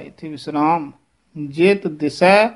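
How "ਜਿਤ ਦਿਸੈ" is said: slow "ਜਿਤ ਦਿਸੈ", t and s single; soft consonants. Shown as a demonstration. Teacher modelling soft words, slow undoubled "ਜਿਤ ਦਿਸੈ". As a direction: say "ਜਿਤ ਦਿਸੈ" lightly without doubling. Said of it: "ਜਿਤ ਪੋਲਾ ਬੋਲਣਾ ਹੈ".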